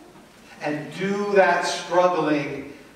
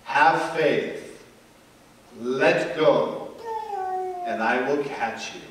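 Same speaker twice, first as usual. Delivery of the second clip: voice of God; slower than usual. Acted. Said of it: "And the voice said".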